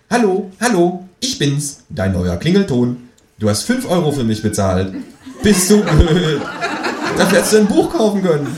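high squawking phone voice, laughing through it; squawky ringtone voice. Acted. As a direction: play a cheeky talking ringtone. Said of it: "Plötzlich quäkt es aus dessen Telefon".

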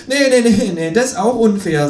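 high, indignant kangaroo protest; high, offended kangaroo. Acted. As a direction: whine like a cheated cartoon kangaroo. Kangaroo figure voiced.

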